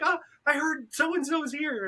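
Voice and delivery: high, slow imitation of her; mock excited lady. Retelling the lady looking for a Pokemon, mock excited. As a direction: mimic the lady breathily drawn out.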